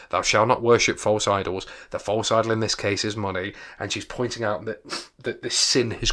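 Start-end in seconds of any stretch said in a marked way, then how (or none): 0.1-3.5 emphatic. Real, not acted. Teacher stressing the key point.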